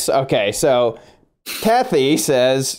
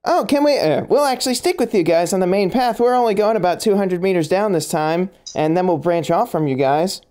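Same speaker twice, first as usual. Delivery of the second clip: Kathy voice; 5 semitones higher than usual. Acted. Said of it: "He's like".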